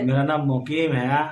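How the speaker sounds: clearer, projected name-giving; speaking up. Real, not acted. Villager repeating his name on request, speaking up. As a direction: say it up so the reporter hears. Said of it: "थोड़ा जोर से बोलिए".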